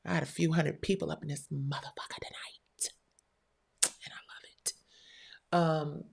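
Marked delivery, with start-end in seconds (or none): 1.1-4.7 hushed whispered aside. Real, not acted. Streamer whispering an aside to her viewers. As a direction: drop to a whisper mid-stream.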